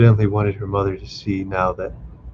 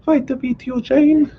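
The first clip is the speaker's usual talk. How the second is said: weak smile; 4 dB louder than usual. A narrator's reading. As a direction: plead gently, faint smile in the voice. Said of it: "she said with a weak smile".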